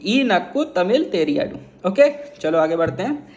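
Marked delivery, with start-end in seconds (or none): 0.1-1.9 slow Tamil demo. Shown as a demonstration. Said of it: "अगर आपको तमिल नहीं आती".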